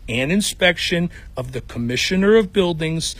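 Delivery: put-on a light Chicago accent reading legal code deadpan. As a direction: read the city code in a mild Chicago accent. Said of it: "in that Chicago accent".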